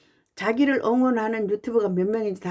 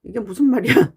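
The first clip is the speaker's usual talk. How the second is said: mild retold surprise; 3 semitones higher, 5 dB louder than usual. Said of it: "깜짝 놀랐어요".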